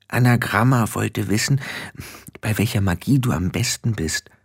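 gentle, understated explanation; kindly rephrase the question for a newcomer; soft-edged and helpful; friendly. Acted. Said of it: "sagte Petulia freundlich".

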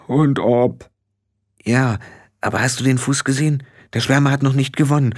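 a hint of a worried small clansman; Feegle voices. The little men in the grass worrying about their witch, hushed.

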